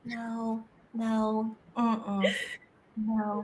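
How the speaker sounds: soft, low no no; soft refusal. Retold or imitated. Family refusing the husband's gif, soft refusal. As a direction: quietly shake it off. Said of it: "We're like".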